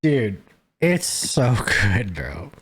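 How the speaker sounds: slow words broken by a laugh; laughing through it. Real, not acted. Praising the podcast to friends, slow and laughing. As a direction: laugh as you say it's so good.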